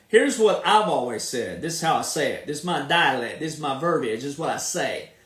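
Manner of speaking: low, unhurried Southern twang; thick Southern drawl. Shown as a demonstration. Showing viewers his Southern dialect, thick Southern drawl. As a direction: lay the Southern accent on thick. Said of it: "there's my Southern really pouring it on right there".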